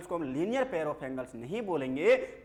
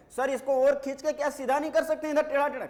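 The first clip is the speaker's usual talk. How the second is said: higher, quicker pupil's question; a hint of a pestering student, pitched up and hurried; lightly voiced student; 8 semitones higher, faster than usual. Student asks teacher to straighten a crooked line, lightly acted fussy pupil.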